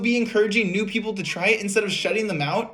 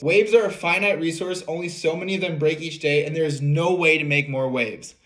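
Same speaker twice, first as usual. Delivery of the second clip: sarcastic reading; 3 semitones lower than usual. Retold or imitated. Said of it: "Our boy McFadden here says".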